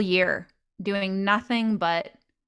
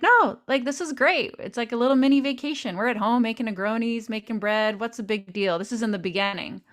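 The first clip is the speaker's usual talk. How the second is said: breezy dismissal; 2 semitones higher, faster than usual. Retold or imitated. Retelling her dismissive old self.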